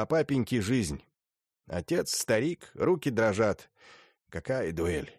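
lightly voiced stern old lady; a hint of an imperious grande dame; haughty old princess.

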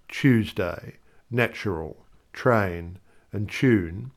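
"Tuesday, natural, train, tune" with each T as CH. Shown as a demonstration. Presenter giving examples, CH for T in "Tuesday" and "tune". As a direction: say "Tuesday" as choose-day, "tune" as choon. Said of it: "pronunciation of the letter T as C H".

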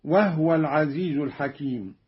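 وهو said "wahwa", with no vowel on the h; silent-vowel ha. Shown as a demonstration. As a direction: close وهو on the h before wa. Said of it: "بإسكان الهاء".

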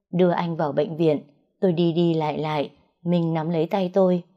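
ordinary delivery, nothing marked

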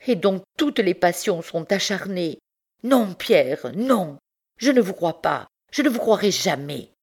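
mock his proof, then refuse; scornful wife.

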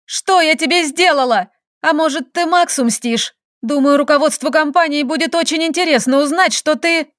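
barking. Acted. Woman confronts her scheming colleague, barking in anger. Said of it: "рявкнула".

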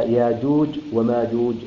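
ياجوج وماجوج with the hamza turned to a long alif, no glottal stop; Qalun reading. Shown as a demonstration. Reciting teacher shows Qalun's reading of ياجوج. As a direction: say ياجوج as yājūj, no catch in the throat. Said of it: "يقرأها هكذا".

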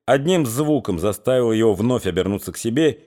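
plain reading voice

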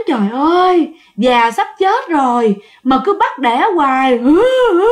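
wailing lament ending in sobs; moan, then sob hard; sobbing moan. Retold or imitated. The crying sow heard through the window, sobbing. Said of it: "cái tiếng".

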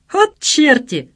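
loud, slow, high delighted exclamation; amused exclamation. A narrator's reading. Son amused by his friends' prank, exclaiming. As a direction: exclaim it as if about to laugh. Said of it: "засмеялся Саша".

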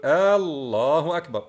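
loud, long "aa" opening الله; hamza before Allah. Retold or imitated. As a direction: stretch the start of الله into "aallahu akbar". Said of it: "رأيت من يفعل ذلك". (همزة ممدودة قبل لفظ الله: آلله)

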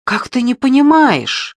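piercing cry. Acted. Natasha at Kirsanov in their fight, piercing high cry. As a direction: let the voice go up into a shrill ringing pitch. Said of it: "Её голос превратился в пронзительный звон".

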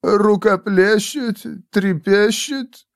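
slow, high, tentative suggestions; timid poet. A narrator's reading. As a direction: offer each rhyme drawn out and high. Poet offers more rhymes.

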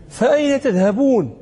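فأين stressed, then a falling question; rebuking question. Shown as a demonstration. Teacher reads the verse to warn the stray listener. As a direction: lean on فأين as a warning. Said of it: "تنبيه".

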